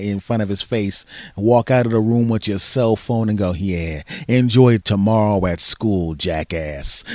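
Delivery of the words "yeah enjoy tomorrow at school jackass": slow, sinking taunt; mock-evil father sign-off; smug dad gloat. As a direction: gloat as you walk out the door.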